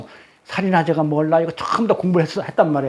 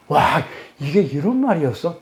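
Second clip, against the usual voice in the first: delighted realization; 3 semitones lower than usual. Acted. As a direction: play a reader marvelling at a discovery. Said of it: "희열을 느껴요".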